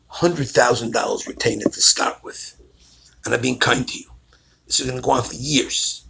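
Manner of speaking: low, softened, matter-of-fact warning; imitated grave attorney. Attorney warning new clients about the case, low and grave. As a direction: quietly lay out the bad news.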